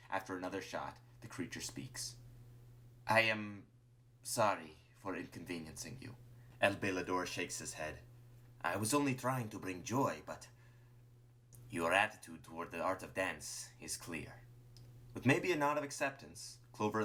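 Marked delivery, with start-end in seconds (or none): 3.1-14.3 halting, subdued apology in character; understated disappointment with pauses between phrases; resigned dancer. Acted. Dancer apologizes to Clover before the final shot, resigned.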